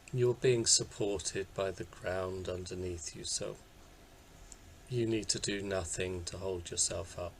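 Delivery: unhurried guiding voice with long pauses; guided meditation. Acted. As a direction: gently talk listeners into settling down, leaving space between phrases. Leads a body scan meditation.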